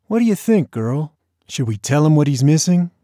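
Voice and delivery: high teasing voice to the dog; sing-song to dog. Acted. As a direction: coo at the dog playfully. Bob teasing, talking to dog.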